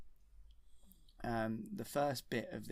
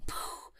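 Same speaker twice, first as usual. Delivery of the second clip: puffed "poof" sound effect; breath-made trapdoor noise; imitated falling noise. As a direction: blow out a whoosh for a sudden drop.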